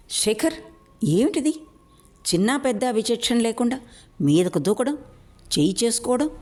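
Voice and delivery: high, angry rebuke. Acted. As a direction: scold him hotly, pitch climbing. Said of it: "Narahari కోపంగా అన్నాడు". (కోపంగా, ఎత్తైన స్వరంతో మందలింపు)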